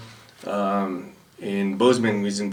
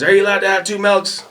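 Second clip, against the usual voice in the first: high, loud mock interrogation; drill sergeant voice; 9 semitones higher, 5 dB louder than usual. Other battery's drill sergeant questioning a recruit, high mock bark. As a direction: grill him like a drill sergeant.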